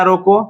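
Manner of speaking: रोको set apart as its own phrase; pause after रोको. Shown as a demonstration. Teacher showing where the comma falls, pause after रोको. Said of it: "comma लगा दिया".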